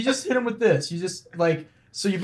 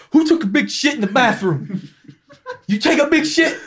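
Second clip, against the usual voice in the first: retold angry holler, higher and laughing; mock outraged janitor yell; 6 semitones higher than usual. Friend retelling a janitor confronting Tourette's guy, mock angry. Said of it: "angry janitor guy goes".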